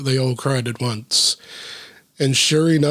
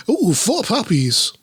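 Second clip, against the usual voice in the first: cooing; 6 semitones higher, slower than usual. Real, not acted. Cooing at a picture of puppies.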